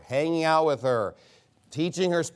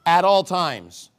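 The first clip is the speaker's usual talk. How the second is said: "At all times" drawn out slowly, weight on "all"; emphatic stress; 4 dB louder, slower than usual. Shown as a demonstration. Preacher answering his own question on the verse's emphasis, emphatic stress on "At all times". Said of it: "What's the emphasis of this?".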